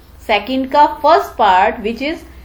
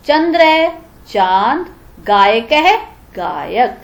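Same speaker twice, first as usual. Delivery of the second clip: slow, drawn-out dictation for notes; spelling out meanings for students copying down; slower than usual. Shown as a demonstration. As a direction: read each pair slowly so students can write. Teacher dictates word meanings slowly.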